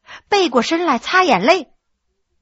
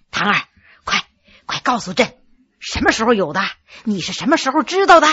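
eager, impatient; 3 semitones lower, faster than usual. Acted. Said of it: "迫不及待地问".

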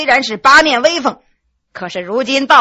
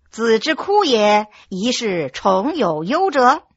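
slow, rising and falling chant of a schoolbook; slow sing-song recitation; reciting classical text; slower than usual. Acted. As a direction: drone out the lesson like a scholar reciting. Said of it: "高一声低一声的在那背书".

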